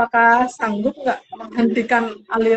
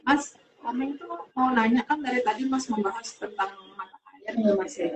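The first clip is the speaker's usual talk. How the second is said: choppy breaking audio; 8 dB quieter than usual. Real, not acted. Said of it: "Putus, putus suaranya".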